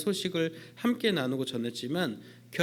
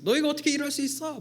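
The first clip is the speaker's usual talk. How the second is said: high, fast indignant outburst; God's high, quick indignant rebuke to his people; 11 semitones higher, 3 dB louder, faster than usual. Retold or imitated. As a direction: rebuke them in a rising fury. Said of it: "막 분개하시면서".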